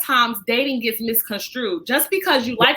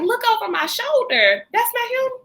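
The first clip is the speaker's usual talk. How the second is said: mimicking a man; 8 semitones higher than usual. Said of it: "So he was like".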